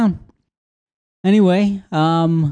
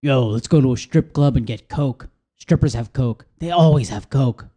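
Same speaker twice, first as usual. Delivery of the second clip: party bro. Retold or imitated. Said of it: "would always suggest the same thing".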